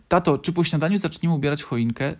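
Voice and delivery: put-on high, eager child's question; hopeful. A narrator's reading. Little fox asking dad about the tree, hopeful. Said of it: "spytał z nadzieją w głosie".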